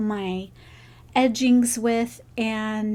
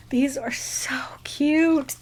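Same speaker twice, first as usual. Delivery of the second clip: slow whisper; 2 semitones higher, slower than usual. Real, not acted. Admiring gifts on camera.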